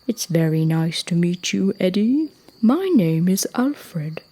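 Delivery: a hint of a gentle giant; friendly elephant. Elephant introducing himself to a young giraffe, lightly voiced giant.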